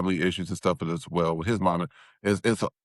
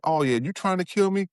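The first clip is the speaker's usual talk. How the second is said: mother yelling; 9 semitones higher than usual. Retold or imitated. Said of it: "hears her screaming and yelling".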